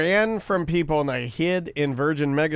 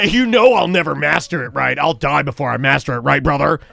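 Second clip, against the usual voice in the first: bro voice; 4 semitones lower than usual. Retold or imitated. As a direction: talk like a jiujitsu bro. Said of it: "You were talking like a bro".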